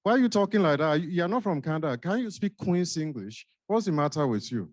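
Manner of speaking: lightly put-on Nigerian accent, playful; a Nigerian newcomer teasing the doctor, accent only hinted. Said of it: "You have just triggered the next role play".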